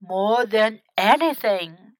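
lightly wistful, dreamy reply; faraway voice. Acted. Grandfather longs to learn, mildly faraway voice. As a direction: say it as if lost in longing. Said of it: "said in a faraway voice".

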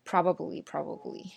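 probably said in full as PROB-a-blee; probably with the middle "ba" kept; full three syllables. Shown as a demonstration. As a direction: pronounce every syllable of probably. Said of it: "说快的时候发它真的是挺费劲儿的".

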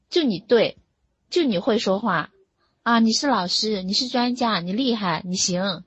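sarcastic praise in short separate jabs; imitated sarcasm. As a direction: lightly act out a husband's sneering comeback. Husband's sarcastic comeback acted out.

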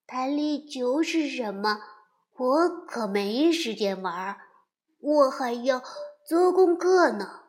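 busy little beaver, rising at end; a hint of a serious kid beaver.

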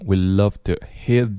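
"hit" with the t held and unreleased; silent final stop. Shown as a demonstration. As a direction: stop "hit" short, mouthing the t without sound. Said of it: "只做口型不出声音".

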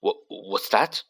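slow, stammering disbelief; stunned. Acted. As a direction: caught completely off guard. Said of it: "said Mister Weasley in a stunned voice".

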